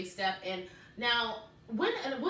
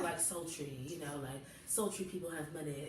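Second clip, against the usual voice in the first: sultry woman; 6 semitones lower, 8 dB quieter than usual. Shown as a demonstration. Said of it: "I'm gonna try to talk, like, sultry".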